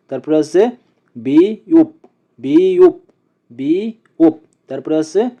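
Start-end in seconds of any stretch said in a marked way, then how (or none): 1.2-4.3 বিউপ with বি held, closing on প; pronunciation drill. Shown as a demonstration. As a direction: model বিউপ in two beats. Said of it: "আমরা আবার একসাথে উচ্চারণ করি". (বিউপ টেনে ভেঙে উচ্চারণ)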